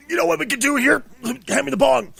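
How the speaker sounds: hammed-up stoned studio guy with a big idea; stoned exec pitch. A stoned studio exec pitches a game movie, hammed up and loud.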